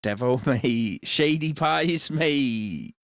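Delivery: Devo voice. Retold or imitated. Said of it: "you did the Devo voice".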